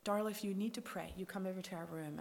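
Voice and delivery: quiet invitation from the sister-in-law; quietly. Retold or imitated. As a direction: murmur it kindly so others won't hear. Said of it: "they say to me quietly".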